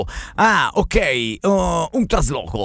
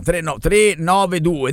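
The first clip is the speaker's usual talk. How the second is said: slow, separated digits in "tre nove due"; dettatura scandita; much slower than usual. Shown as a demonstration. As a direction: dictate "tre nove due" number by number, very slowly. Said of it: "dettalo, vai". ("tre nove due" scandito lentamente)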